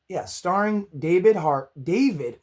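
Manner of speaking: losing voice, hoarse and strained. Real, not acted. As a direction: push through a hoarse, tired throat. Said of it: "I'm losing my voice".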